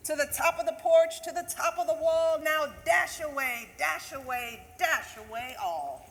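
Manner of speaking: loud, high and fast, easing down at the end; rally the team up the roof; urging reindeer on. Acted. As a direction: Santa driving his reindeer up the roof, calling.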